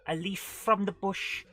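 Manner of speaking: high, loud mock Welsh witch, slowly pleading; bad Welsh witch. Witch begs Dizzy to find her cat, hammed-up Welsh accent. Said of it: "The witch is Welsh in this version".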